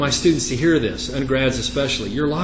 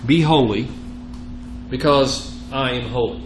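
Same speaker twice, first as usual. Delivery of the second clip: emphatic, measured reading of Scripture; 4 dB louder than usual. Acted. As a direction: read the verse out firmly to the class. Reads Scripture aloud.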